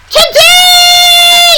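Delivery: yelling trucks. Acted. Freight cars yelling demands at the engines, loud and high. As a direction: yell it, demanding. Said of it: "yelled the freight cars".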